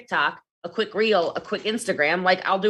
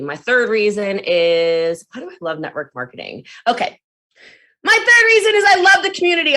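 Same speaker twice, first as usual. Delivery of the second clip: TikTok pitch; 3 dB louder than usual. Shown as a demonstration. Recording a TikTok, hyped pitch to followers. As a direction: gush about the community to camera. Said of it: "Let me show you how easy it is".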